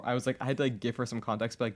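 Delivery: ordinary talk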